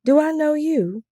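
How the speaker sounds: high, startled question; dumbfounded. A narrator's reading. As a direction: ask it blankly, caught off guard. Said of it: "I asked dumbly".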